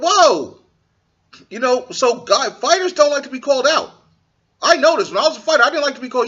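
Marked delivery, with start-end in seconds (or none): 0.0-0.6 parent's warning. Retold or imitated. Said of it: "your parents be like".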